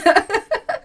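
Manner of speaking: high bursting laugh; loud laugh. Real, not acted. Laughing at her own universe joke. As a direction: crack up at yourself.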